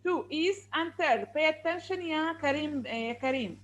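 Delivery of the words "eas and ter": "east and third" slowly separated as two parts; slow two-part breakdown of "east and third"; split into syllables. Shown as a demonstration. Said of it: "how many syllables here?".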